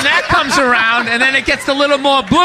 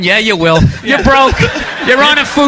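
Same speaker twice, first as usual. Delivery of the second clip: unbothered agent. Retold or imitated. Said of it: "he would just sit on the ropes".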